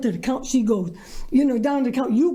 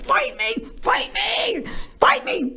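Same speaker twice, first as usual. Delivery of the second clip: insistent demand; 8 semitones higher, slower than usual. Retold or imitated. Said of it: "She's like".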